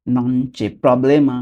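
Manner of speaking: non c'è problema stretched out word by word; slow demo. Shown as a demonstration. Teacher modelling non c'è problema slowly for learners. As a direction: give each syllable of non c'è problema its own time. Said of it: "ওকে, আমি আবার বলছি".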